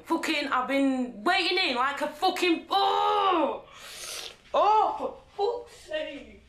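exasperated shouted oh, then a slow for fuck's sake; fed up, yelling; frustrated outburst. Real, not acted. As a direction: explode in frustration. Furious at her sister.

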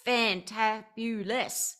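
FANTABULOUS slow, syllable by syllable; "fantabulous" broken into slow, savoured beats; drawn-out emphasis. Real, not acted. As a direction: stretch out "fantabulous" with relish. Gushing over her app.

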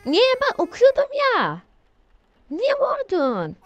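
yüksek ve ürkek bir sitem; karanlıkta ürkmüş gibi sitem et, sonu yavaş. Real, not acted. (ekran kararınca ürken oyuncu, tiz sitem)

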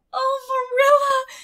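high, loud squeal of delight; joyful exclamation. Acted. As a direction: burst out with pure joy. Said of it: "exclaimed Anne".

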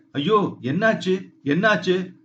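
alarmed cry. Acted. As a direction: sound the shock of seeing the drowned girl. Shock at the drowned girl.

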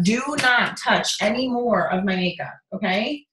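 slow, deliberate telling-off; real stern warning. Real, not acted. Warning a child off her makeup, stern. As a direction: space out the command word by word.

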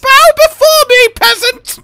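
high, loud imperious command; dark lord. Pretend. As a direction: command like a tyrant queen. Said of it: "this is the Celtus Queen".

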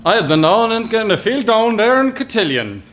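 put-on Kerry accent instead of American Southern. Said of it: "That's Kerry".

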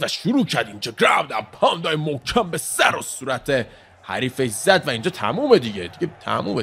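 high, stretched replay call; animated fight commentary with leaping pitch; excited play-by-play. Real, not acted. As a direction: relive the ground-and-pound, punching out the words.

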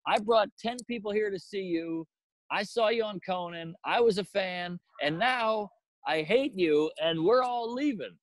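retold hurt complaint, rising in pitch; aggrieved fan. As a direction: declare your disappointment as an offended fan. Disillusioned fan quarrels with comic.

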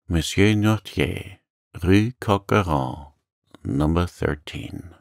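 slow, stunned repeating; understated dazed murmur. Acted. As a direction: read it out slowly, half to yourself. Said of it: "murmured he".

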